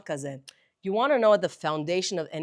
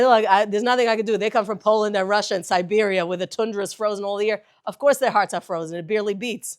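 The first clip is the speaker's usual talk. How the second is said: loud retelling; 6 dB louder than usual. Retold or imitated. Translating the rabbi's quote.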